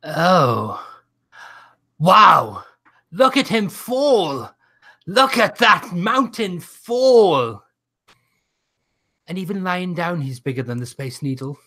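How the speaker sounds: high, slow, gloating commentary; lightly voiced orator. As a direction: gloat over the fallen giant. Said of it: "Anything you have to say, Monet".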